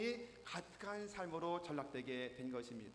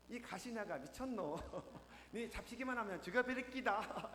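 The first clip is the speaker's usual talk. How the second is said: higher mock-yelled Gyeongsang threat; gruff Gyeongsang man; 4 semitones higher than usual. Gyeongsang boyfriend yells at his girlfriend, mock threat. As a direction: bark it in dialect without chasing. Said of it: "소리소리 찔렀다는".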